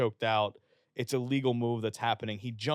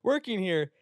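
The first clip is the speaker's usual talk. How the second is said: mock dream-job post; 14 semitones higher, 6 dB louder, slower than usual. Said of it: "he had posted".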